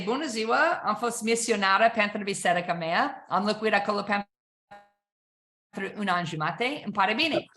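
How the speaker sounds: casual Romanian small talk in a fluent, easy tone; speaking Romanian. Shown as a demonstration. Showing the audience how to greet a Romanian buyer, fluent Romanian. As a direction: rattle it off like a returned missionary. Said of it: "you need to speak Romanian".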